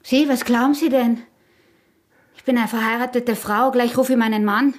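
mock-outraged married woman; indignant outburst. The wife threatens the hunter with her husband, indignant and loud.

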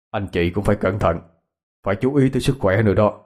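put-on a low, weary old man's voice; an anxious father waiting for the shaman; worried old man.

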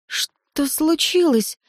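slow, high, trembling question. A narrator's reading. Eteri asks what happened, voice trembling. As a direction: ask it haltingly, scared. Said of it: "дрожащим голосом спросила Этери".

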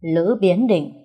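grave, measured pronouncement; stern voice. Acted. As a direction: announce it solemnly like an expert. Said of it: "Cô nghiêm giọng". (nghiêm giọng, dõng dạc)

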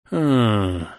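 grimacing mmm; disgusted hum. Acted. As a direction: wince audibly. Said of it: "скривился я".

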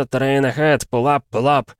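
urgent automated pull-up warning; cockpit alarm voice. Retold or imitated. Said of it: "как говорится".

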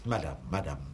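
un ah très haut, puis lassé; exaspération. Acted. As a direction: perdre patience devant le déni. Juge exaspéré par le déni. (juge exaspéré)

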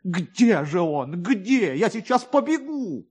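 a touch of frantic eagerness; beside himself. A narrator's reading. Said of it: "Ковалёв был вне себя".

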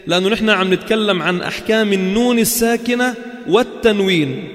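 ordinary talk

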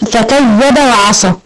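slow careful فكذب وعصى; model recitation. Shown as a demonstration. Teacher giving a line to recite. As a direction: recite فكذب وعصى slowly for them to repeat. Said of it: "يلا مثلًا".

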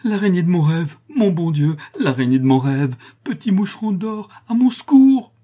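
very high, rising to a loud wail; boy seized by the monkey screaming for help; delirious screaming. Acted. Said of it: "se mit à crier avec des gémissements".

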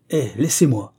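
loud snarling brush-off; husband roaring at his pleading wife; almost a roar. Acted. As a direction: roar her away. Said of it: "un son de voix qui ressemblait presque à un rugissement".

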